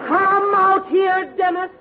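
stern slow command. Acted. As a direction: order him out, word by word. Mother ordering son out.

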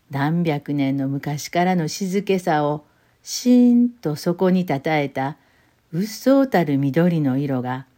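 slow, measured literary reading; unhurried storyteller voice with long pauses; story narration. A narrator's reading. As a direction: read the Osaka memoir calmly, savouring each image. Reads the short story aloud.

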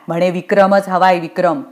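scornful repeat of a demand; understated sarcastic mimicry; mocking echo. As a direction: parrot the order back dismissively. Rita echoes Yamraj's demand scornfully.

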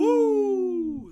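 high shouted woo; piercing wrestler woo; Ric Flair woo. Retold or imitated. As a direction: belt it out like the Nature Boy.

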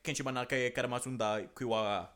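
lightly voiced made-up language, said deadpan; fake foreign language. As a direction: rattle off gibberish as if fluent. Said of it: "I've made up the language".

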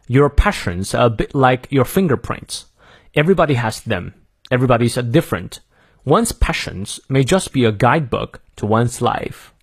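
careful American model reading, R sounded; American accent. Shown as a demonstration. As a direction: read it through in American English for learners. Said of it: "再来一遍".

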